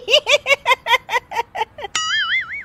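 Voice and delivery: high helpless giggling; high giggle. Acted. Daughter-in-law unable to stop, high giggle. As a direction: giggle uncontrollably. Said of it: "तुम हंस रही हो".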